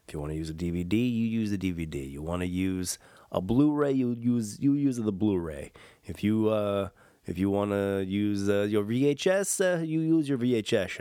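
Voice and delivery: put-on light, half-hearted Portuguese accent; a playful try at a Portuguese accent. Podcast host jokes to listeners in a faint Portuguese accent. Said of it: "that was a little Portuguese accent I was trying".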